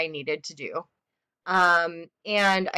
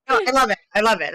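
delighted; 5 semitones higher, 5 dB louder, much faster than usual. Real, not acted. Author delighted by praise.

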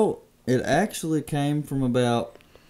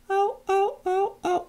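very high, thin turkey yelps; imitated distant hen call. Hunter imitating the hen he heard forever away, high yelps. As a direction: mimic a far-away hen yelping. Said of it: "from forever away".

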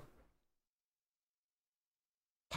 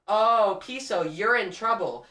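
mocking taunt leaning on "you're in"; stress on YOU'RE IN; slower than usual. Streamer predicting a visitor's pun, teasing stress on "you're in". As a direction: lean on "you're in" so it sounds like urine. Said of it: "you're gonna put emphasis on the word urine".

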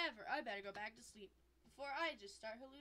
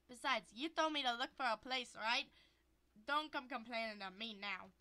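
louder, pleading then snapping back; defensive boyfriend; 6 dB louder than usual. Acted.

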